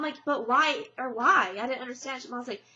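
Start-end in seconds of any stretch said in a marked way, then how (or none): 0.2-1.6 louder, pleading "but why"; a retold raised-voice why; loud protest. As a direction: push back hard at them. Retold argument with sister.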